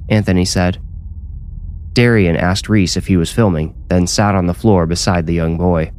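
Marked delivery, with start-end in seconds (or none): none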